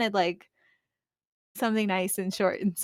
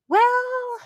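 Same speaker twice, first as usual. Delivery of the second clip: high, louder, drawn-out hedging; hesitant singsong; 11 semitones higher, 6 dB louder than usual. Retold or imitated. Mother answers son asking if he's German, hesitant singsong. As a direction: stretch each word high, breaking it gently.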